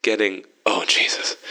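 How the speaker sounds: halting, distracted delivery; slow, interrupted phone reply; slowly. A narrator's reading. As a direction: let the words break off into a faint gasp. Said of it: "Vern said slowly".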